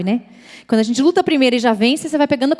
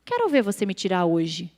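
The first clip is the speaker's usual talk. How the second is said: lightly voiced taunt, pitched down; taunting inner voice; 4 semitones lower, 3 dB quieter than usual. Evil voice challenges the woman, low imitated taunt. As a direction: dare her, low and contained. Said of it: "era a mesma voz".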